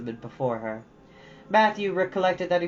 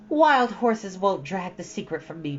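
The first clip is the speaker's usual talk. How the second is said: solemn; 4 semitones higher, 3 dB louder than usual. Acted. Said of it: "promised Anne solemnly".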